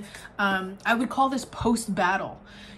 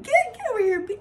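pitched up, mock-tough urban command; tough street voice; 11 semitones higher, faster than usual. Ancestors yanking the snake away, in a hammed-up tough voice. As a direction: bark it like you're ready to brawl. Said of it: "I'm getting real urban".

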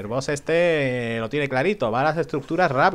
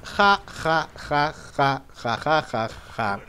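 spelt-out gloating ha-ha; mock gloating laugh; much slower than usual. Gamer gloating at a beaten enemy, mock laugh.

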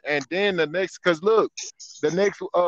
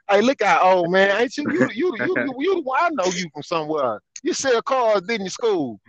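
put-on teasing, higher-pitched confrontation of the old dealer; mock confrontation; 3 semitones higher than usual. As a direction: needle him like you finally caught him.

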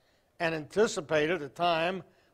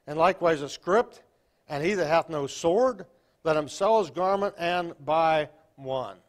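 scripture reading; 4 dB louder than usual. Acted. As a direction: proclaim the verse to the church. Reads scripture to congregation.

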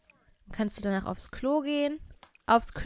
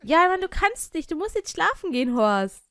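much higher, louder nagging; exasperated yell; 6 semitones higher, 6 dB louder than usual. Real, not acted. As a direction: shout at the stubborn Sim. Yelling at Sim Horst. (genervt laut anschreien)

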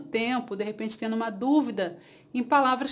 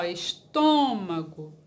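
ESTÔMAGO slowly, leaning on the closed TÔ; stress on the O; 5 semitones lower, slower than usual. Shown as a demonstration. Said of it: "no O". ("estômago" devagar, com força no TÔ)

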